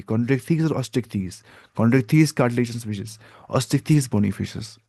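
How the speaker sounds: slow, deliberate dictation of terms. Shown as a demonstration. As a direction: give students time to write each word. Teacher dictating class names.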